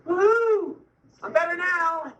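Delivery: high, giddy woo-hoo of relief; mock celebration. Patient just given pain meds at hospital, mock celebration.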